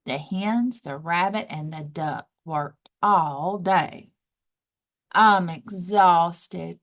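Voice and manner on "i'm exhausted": sighing tiredly. Acted. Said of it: "sighed the hen".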